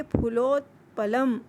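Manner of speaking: फुलोत्पलम drawn out slowly, each syllable clear; slow teaching take of फुलोत्पलम; slow pronunciation. Shown as a demonstration. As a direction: model फुलोत्पलम slowly for the class. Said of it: "क्या बोलेंगे?".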